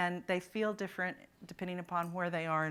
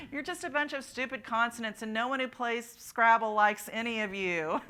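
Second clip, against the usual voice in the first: mock insult; 3 semitones higher than usual. Acted vowel teasing consonants.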